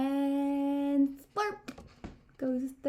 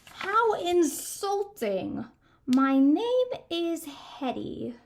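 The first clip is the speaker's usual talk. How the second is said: slow, lightly growly monster voice; a hint of offended grumble; slow put-out monster reply; a touch of an angry monster; 4 semitones higher, slower than usual. A narrator's reading. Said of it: "glared down with the angriest growl".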